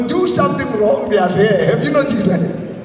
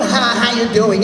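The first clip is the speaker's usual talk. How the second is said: flat greeting. Retold or imitated. Mock bored wife greeting husband.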